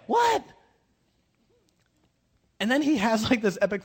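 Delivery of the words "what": high, shouted what; a startled high yelp of surprise; shocked. Retold or imitated. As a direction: blurt it out in disbelief. Retold dialogue, shocked reply.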